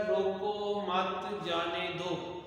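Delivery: "روکو مت جانے دو" run together, drawn out slowly; no pause. Shown as a demonstration. Teacher reading unpunctuated example to students, no pause. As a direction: read "روکو مت جانے دو" as one unbroken, ambiguous line. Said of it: "نہ تو یہ اس میں سمجھ آ رہی ہے".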